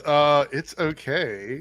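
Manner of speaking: slow, hesitant faint praise; reluctantly kind, dragged-out verdict; being nice. Shown as a demonstration. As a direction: draw it out, politely lukewarm. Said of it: "this is being nice".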